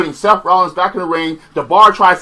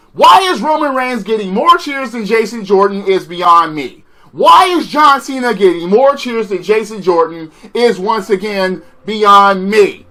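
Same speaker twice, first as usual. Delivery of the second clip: exasperated rant; 4 semitones higher than usual. Real, not acted. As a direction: vent your disbelief at the booking. Ranting about crowd reactions.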